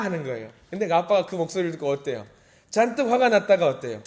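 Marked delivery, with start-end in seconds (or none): none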